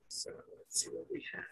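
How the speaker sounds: barely voiced, whispered to oneself; very soft, quick whisper while checking; murmured aside. Real, not acted. Teacher checking the lesson to himself, murmured aside.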